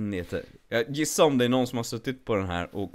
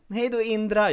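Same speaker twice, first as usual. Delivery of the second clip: cheery teacher goodbye; 9 semitones higher, 3 dB louder than usual. Retold or imitated. Teacher voiced third time.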